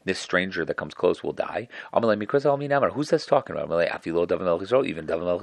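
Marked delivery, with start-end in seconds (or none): 1.9-3.7 high, louder mock surprise; surprised question. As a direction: ask it amazed. Convert asks whom verse means.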